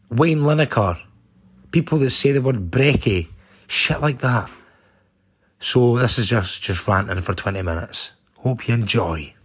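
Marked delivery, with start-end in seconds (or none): 5.6-9.3 creepy. Real, not acted. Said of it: "That sounded total creepy there".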